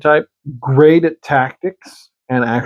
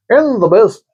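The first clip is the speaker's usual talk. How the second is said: higher-pitched botched Scottish, nearly British; Scottish slipping British; 6 semitones higher than usual. Acted. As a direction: attempt Scottish and slide toward British. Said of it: "that almost came out British".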